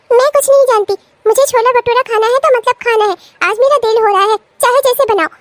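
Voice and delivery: bratty, insistent demanding; petulant demand. Acted. Girl orders bhabhi to cook chhole bhature, petulant and insistent. Spoilt sister-in-law demands food.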